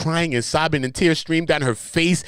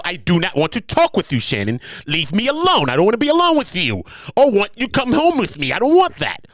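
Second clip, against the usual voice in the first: high, louder pleading woman; 7 semitones higher, 4 dB louder than usual. Retold or imitated. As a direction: beg high and loud to be left alone. Voicing the plaintiff refusing.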